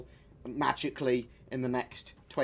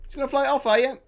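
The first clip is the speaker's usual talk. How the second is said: louder, higher cry of alarm; alarmed outburst; 13 semitones higher, 11 dB louder than usual. Real, not acted. Reacting to his ship flying off without him, alarmed. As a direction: yelp as the ship drifts away.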